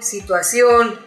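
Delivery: "situación" with the stress on final "ción"; stress on last syllable. Shown as a demonstration. Teacher listing aguda examples, "situación" stressed on "ción". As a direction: put the voice's weight on the "ción" of "situación". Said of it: "la mayor fuerza de voz está en la última sílaba".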